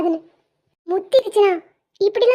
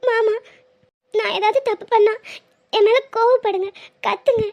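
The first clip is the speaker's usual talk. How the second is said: tearful plea broken by sobs; crying. Acted. Wife begs husband not to stop speaking to her, crying. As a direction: plead through tears, breaking into sobs. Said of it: "அதுக்கா இப்படி அழுதுட்டு இருக்க?".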